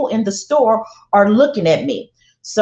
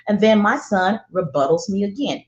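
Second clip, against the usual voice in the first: ordinary delivery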